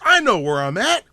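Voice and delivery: high, loud dawning excitement; mock sudden realization. Driver in an ad realizing where he is, hammed-up excitement. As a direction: build loudly toward the big reveal. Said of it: "And then all of a sudden he goes".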